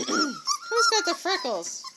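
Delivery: very high squeaky coo. Real, not acted. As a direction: sing it up high to a puppy. Cooing at the puppies.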